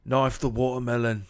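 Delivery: loud British accent demo; punchy British voice with a swallowed T. Shown as a demonstration. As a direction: drop the T in "watermelon", British-style. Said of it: "That's the key to getting that voice down".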